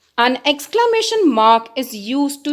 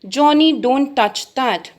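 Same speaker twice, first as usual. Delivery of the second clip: stern warning. Shown as a demonstration. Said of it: "We have used exclamation mark".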